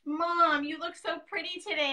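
lightly voiced sweet little daughter. Mom retelling her daughter's compliment, lightly imitated sweet little voice. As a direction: imitate a sweet little girl, gently put on. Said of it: "in the sweetest little voice".

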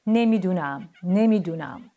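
loud, evenly repeated cry; monkeys' repeated call. A narrator's reading. Monkeys keep calling from the closed drawer, loud cry. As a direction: call it out loudly, twice over. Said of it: "صدای میمونا رو میشنید که میگفتن".

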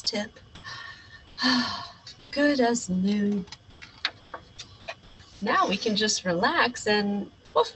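bold captain narrating his mission; heroic space captain. Acted. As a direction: play the brave space hero. Child hero voices adventure.

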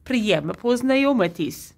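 careful repeat of "Priemno poznayomitis"; repeating the phrase. Shown as a demonstration. Vlogger repeats the phrase for viewers, careful. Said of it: "Let's do it again".

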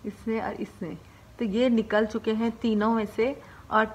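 talking with finger in mouth; finger pulling lip down. Real, not acted. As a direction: lip held open by finger. Seen 3: Finger holds lower lip down, showing braces, throughout the labelled words.

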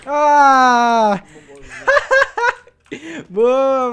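loud, high laughing cheer; excited cheer. Real, not acted. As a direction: whoop and laugh with relief. Winning a tense round.

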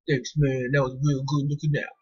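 a mild take on her teammate's laid-back thanks; Blake's voice. Retold or imitated. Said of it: "That's how Blake talks in here".

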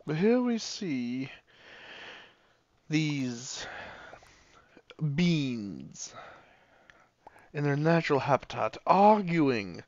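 hushed wildlife narrator turning excited; nature documentary. Pretend. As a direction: narrate the beans like a nature film.

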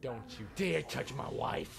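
slow, forceful threat; angry warning. Pretend. Player warning attackers off his wife, angry. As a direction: burst out hard on the warning.

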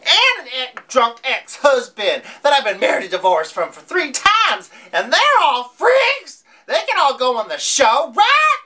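high, fast, worked-up rant; excited indignation. Retold or imitated. Retelling her reaction to the show title, high excited rant. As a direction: pitch it up like she can't believe they skipped her. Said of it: "I'm like".

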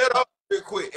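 high, loud command; shouting for silence. Real, not acted. Host silencing the whole call, shouting. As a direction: shout over everyone talking. Demanding silence over the noise.

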